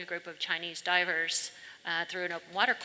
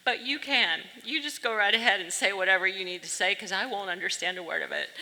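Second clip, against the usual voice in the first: emphatic encouragement; 4 dB louder, faster than usual. Retold or imitated. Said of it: "And I said".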